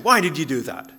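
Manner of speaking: mildly accusing question; a touch of reproach in the question. Shown as a demonstration. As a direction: put it as a mild accusation. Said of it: "in an accusing way".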